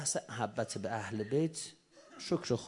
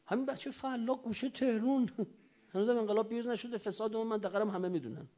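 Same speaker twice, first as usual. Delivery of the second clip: excited; 9 semitones higher than usual. Acted. Amazed exclamation about the child.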